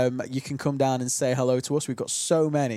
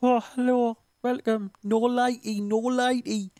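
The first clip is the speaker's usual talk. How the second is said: much higher, cheeky northern presenter voice; Paddy McGuinness impression; 8 semitones higher than usual. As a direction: camp it up with a catchphrase. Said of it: "do you want my impression of Paddy McGuinness?".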